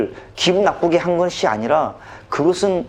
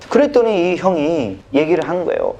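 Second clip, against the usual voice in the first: ordinary talk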